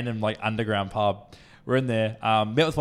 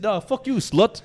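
loud, high mock-Russian shout; yelling Russian guy; 10 semitones higher, 5 dB louder, slower than usual. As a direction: call them over like a pushy Russian. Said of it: "He's, like, yelling at them".

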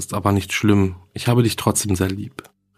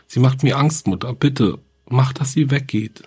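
put-on frightened child's plea, pitched a little higher; ängstliches Flehen; 3 semitones higher than usual. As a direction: plead with mother, scared but restrained. Verängstigtes Kind fleht Mutter an. (ängstlich flehend, leicht verzweifelt)

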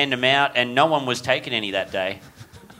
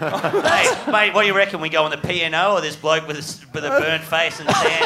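mock tourist voice; 4 semitones higher than usual.

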